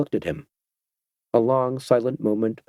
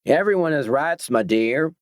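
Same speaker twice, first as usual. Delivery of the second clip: soothing; 5 semitones higher than usual. A narrator's reading. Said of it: "in a soothing voice".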